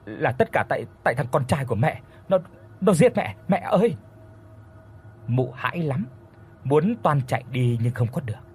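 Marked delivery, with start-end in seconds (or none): 0.0-4.0 stuttering plea rising to a frightened cry; frightened begging. Acted. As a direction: babble excuses in fear. Terrified woman begs ghost.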